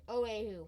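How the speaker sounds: Oahu said as "oh-AY-hoo"; mispronounced Oahu. Acted. Husband dreaming of Hawaii, Oahu mispronounced "oh-AY-hoo". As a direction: put an AY in the middle of Oahu. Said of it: "That's pronounced Oahu".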